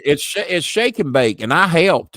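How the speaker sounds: put-on high, bright ad-kid line; shake and bake ad voice. Quoting the Shake and Bake TV ad in its voice. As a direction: belt out the old commercial "and I helped".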